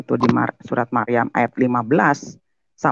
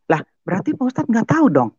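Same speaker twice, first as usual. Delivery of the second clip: high, fast skeptical aside; quick mocking thought; inner scoff; 9 semitones higher, faster than usual. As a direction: think it with a scoff. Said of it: "Dalam hati saya".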